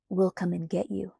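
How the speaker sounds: understated, flat vow; flat promise. Acted. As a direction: promise it without colour. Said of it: "he promised in a flat voice".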